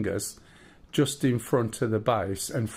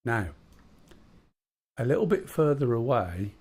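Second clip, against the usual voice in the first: storyteller voice; 3 dB quieter than usual. Acted. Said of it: "his proper storyteller voice".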